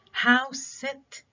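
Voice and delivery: house said high and strong, sit light; stress on house. Shown as a demonstration. Teacher demonstrates stress on house. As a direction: hit house, let sit fall away. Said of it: "So the stress is on house".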